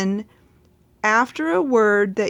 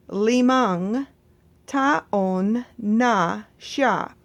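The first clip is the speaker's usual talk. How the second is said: slow, careful model sentence; much slower than usual. Shown as a demonstration. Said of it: "slow model sentence".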